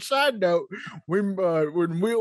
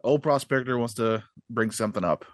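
put-on old prospector; 9 semitones lower, faster than usual. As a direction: talk like a crusty old gold miner. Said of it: "sorry, sorry about this".

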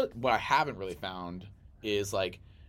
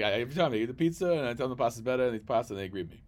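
put-on New York Italian accent; 3 semitones higher, 5 dB louder, faster than usual. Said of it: "I love his accent".

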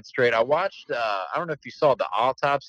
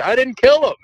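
squeaky imitated denial, much higher; mock high protest; 13 semitones higher, 8 dB louder than usual. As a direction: play the accused woman, pleading. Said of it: "She's like".

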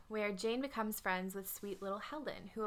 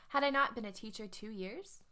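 put-on English accent. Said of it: "her ad was, um, in an English accent".

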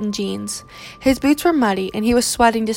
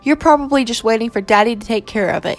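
sneering. Acted. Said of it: "he sneered at her through his teeth".

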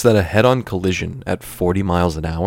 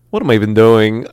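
Christopher Walken; 2 semitones higher, 6 dB louder than usual. Acted. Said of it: "movie that Christopher Walken was gonna star in".

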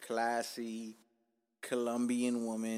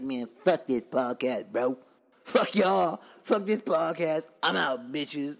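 slow, loud, disgusted rant, done in a put-on voice; fed-up podcaster quitting; 2 semitones higher, 9 dB louder, slower than usual. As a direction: storm out of the mic mocking yourself. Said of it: "I would've just been in here like".

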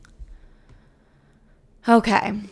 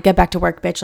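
self-scolding; 6 dB louder than usual. Retold or imitated. Scolding herself over downloads.

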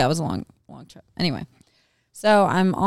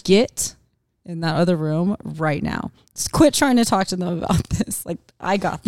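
mom voice. Retold or imitated. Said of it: "you had your mom voice on".

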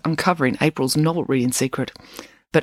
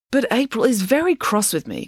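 Loretta; 7 semitones higher than usual. Acted. Loretta complains about April.

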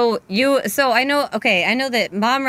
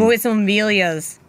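put-on a light, clumsy Boston accent; half-hearted Boston accent; bad Boston accent. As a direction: try a Boston accent and miss. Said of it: "That's a terrible accent".

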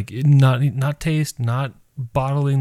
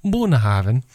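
put-on Wisconsin accent; 4 semitones higher than usual. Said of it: "like, a Wisconsin accent".

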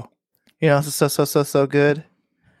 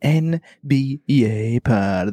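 podcast host intro; much slower than usual. Acted. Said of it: "You're a professional".

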